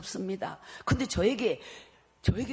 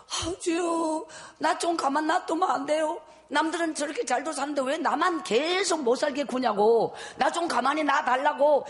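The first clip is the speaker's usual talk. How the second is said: raised, pleading cry to God; pleading prayer; 6 semitones higher, 3 dB louder than usual. Retold or imitated. Testifying to the church, loud pleading prayer. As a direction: beg God to be left alone. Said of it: "이러면서 제가 막 기도를 했어요".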